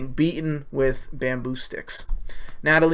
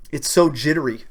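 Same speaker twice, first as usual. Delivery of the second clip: talking through a blocked nose; stuffy nose, nasal congestion; stuffed-up nose; 4 dB louder than usual. Real, not acted. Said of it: "I don't know why I'm stuffed up".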